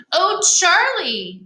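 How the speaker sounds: lightly voiced soothing mother; a hint of a mom calming her son; mother's voice. Mother comforts her scared son, lightly voiced, soothing. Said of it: "she said".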